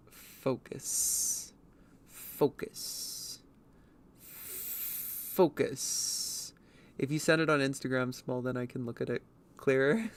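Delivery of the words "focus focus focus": whispering to herself; whispered focus. Real, not acted. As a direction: whisper it to yourself, drawn out. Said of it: "Focus, damn you".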